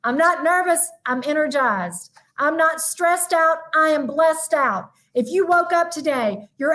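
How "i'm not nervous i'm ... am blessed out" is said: affirmation. Shown as a demonstration.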